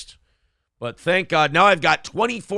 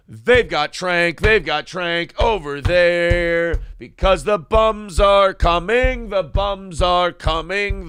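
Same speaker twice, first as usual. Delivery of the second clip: slow, drawn-out alarmist voice; lightly hammed-up town crier; mock doom warning; 3 semitones higher, slower than usual. Host joking about Philly, slow mock-alarmed warning.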